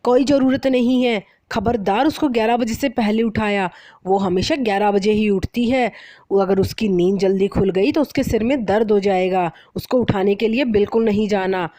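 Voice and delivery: mother-in-law warning the bride off; stern warning. Acted. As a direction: protect her daughter's sleep, firmly. Mother-in-law forbids waking daughter.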